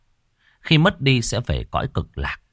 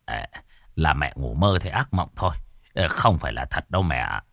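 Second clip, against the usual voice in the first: comforting son; 4 semitones lower than usual. Acted. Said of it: "Bác Khôi an ủi".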